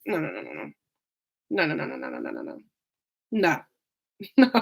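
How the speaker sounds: quiet whimpering no's; half-crying no, trailing off. Real, not acted. Reacting to a comment with dismay.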